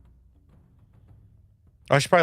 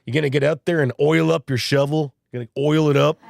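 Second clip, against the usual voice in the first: teasing, incredulous "oil up your shovel?"; a hint of mock amazement at an old custom; mocking disbelief; 2 semitones higher than usual. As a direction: poke fun at the old advice. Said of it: "I always laugh about this. I'm like".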